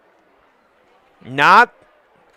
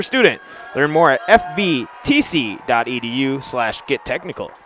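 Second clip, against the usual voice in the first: even, softer ad-read voice; sponsor ad read; 3 dB quieter than usual. Acted. Commentator reading a sponsor ad between plays, ad-read voice. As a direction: read the sponsor spot smoothly.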